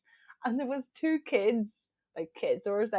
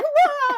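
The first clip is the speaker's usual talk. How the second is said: high startled shriek; shocked scream; 9 dB louder than usual. Retold or imitated. Screaming at teenagers around the corner, a loud high shriek. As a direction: let out a short loud scream. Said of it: "And I scream".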